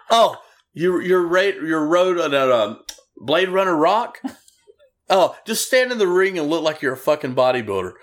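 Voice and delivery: a booker fumbling the name, then dismissing him; Bill Watts impression. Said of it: "Bill Watts is like".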